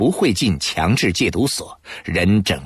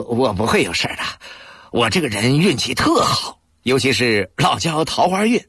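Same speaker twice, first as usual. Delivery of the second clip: joking reassurance; 4 semitones higher than usual. Acted. Alikun jokes to reassure Anqi.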